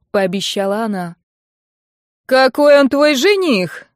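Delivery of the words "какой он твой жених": higher, louder and slow demand; loud woman's voice. A narrator's reading. Mother-in-law shouts across the square, loud slow outrage. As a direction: call out loudly, outraged. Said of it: "раздался громкий женский голос".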